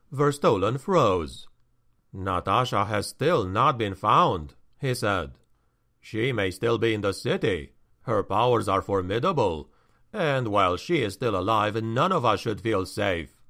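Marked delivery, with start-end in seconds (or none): 2.1-13.4 low, grave measured warning; sober, serious caution; stern counselor. Acted. Verstolen speaks gravely.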